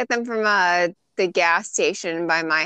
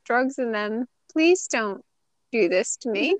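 put-on pleading kid; 5 semitones higher than usual. Pleading with TSA agents.

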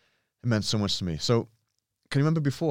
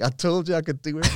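higher, louder triumphant boast; proud kid; 9 semitones higher, 5 dB louder than usual. Retold or imitated. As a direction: gloat happily like the proud kid.

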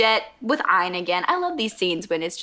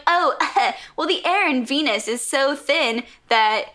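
smug bad guy; 4 semitones higher than usual. Bad guy explaining the voice change, smug. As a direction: draw it out with smug relish. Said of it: "this guy is so smug".

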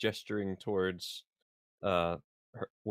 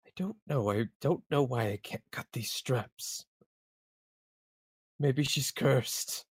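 teary confusion; 4 semitones higher than usual. Acted. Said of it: "he's tearing up".

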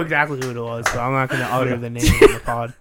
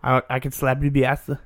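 put-on Jamaican accent. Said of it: "your Jamaican accent is spot on".

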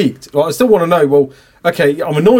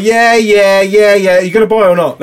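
pushy salesman; 5 semitones higher, 5 dB louder, slower than usual. Retold or imitated.

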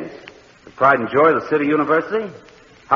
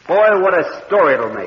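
excited; 6 semitones higher, 5 dB louder than usual. Acted. Reporter excited by the scoop.

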